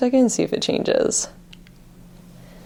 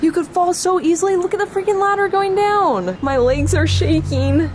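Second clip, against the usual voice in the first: scared; 10 semitones higher than usual. Real, not acted. Scared on high fire escape.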